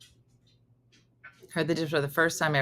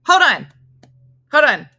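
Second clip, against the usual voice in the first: deaf grandma; 8 semitones higher, 10 dB louder than usual. Retold or imitated. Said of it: "she'd be like".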